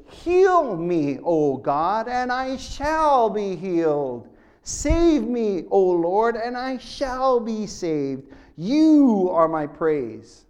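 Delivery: slow, drawn-out earnest plea to God; pleading prayer. Acted. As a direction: pray it slowly like Jeremiah begging for healing. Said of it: "Jeremiah pleads to the Lord and says".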